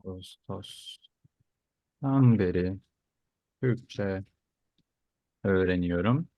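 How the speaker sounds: very slow, careful teacher modelling; slow model sentence. Shown as a demonstration. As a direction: say each chunk slowly for learners. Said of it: "teacher repeats slowly".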